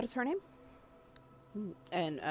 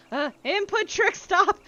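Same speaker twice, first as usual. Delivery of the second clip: put-on much higher, louder, slowed child command; child's voice; 14 semitones higher, 7 dB louder, slower than usual. Douglas ordering the dog to stop. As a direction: call it out like a small kid. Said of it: "he goes".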